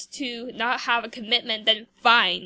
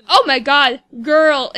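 shocked exclaim; 12 dB louder than usual. Real, not acted. Shocked by Sims character's insult.

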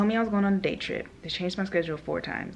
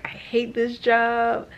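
mock angry outburst; 5 semitones higher, 5 dB louder, much slower than usual. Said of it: "I was like".

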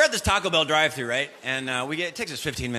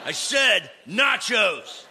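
put-on whiny kid; 7 dB quieter than usual. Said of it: "one of my sons starts complaining".

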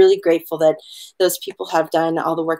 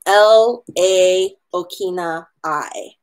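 slow spelling; slower than usual. Shown as a demonstration. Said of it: "is spelled".

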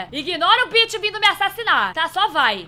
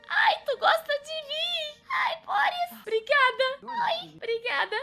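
sweet high voice; 11 semitones higher, slower than usual. Real, not acted. Grateful to the character.

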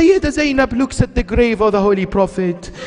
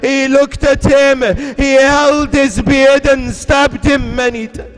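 impassioned elegy; 3 semitones higher than usual. Acted. Zainab tells the Prophet of Shimr, crying out. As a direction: preach the killing at full force.

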